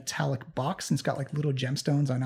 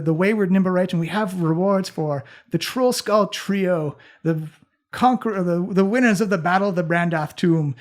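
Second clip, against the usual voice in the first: raised proud herald voice; grand announcement; 2 semitones higher than usual. Acted. GM voicing NPC ceremony speech.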